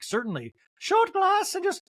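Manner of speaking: very high, loud mock waiter; shrill-free high falsetto waiter bit; fussy waiter voice. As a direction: ham up an over-eager server. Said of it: "he's like".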